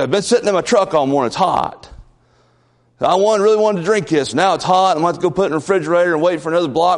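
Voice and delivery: imitating a put-out student, hurried; mock complaint. Retold student complaining about hot Sprite.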